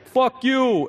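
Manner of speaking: high, loud mock yell; mock scream. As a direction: shout it like an angry old man. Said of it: "screaming at me".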